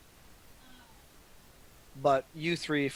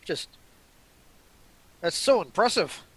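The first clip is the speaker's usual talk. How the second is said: impressed, with halting emphasis; eager admiration; 4 dB louder than usual. Acted. Rory answers Ellie's invitation to build robots, eager and impressed. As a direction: marvel at it, searching for words. Voicing Rory's delighted reply to Ellie.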